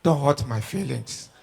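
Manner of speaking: low, soft, slowed plea; gently mock-plead like the woman on her knees; imitated begging. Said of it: "dey beg me, say".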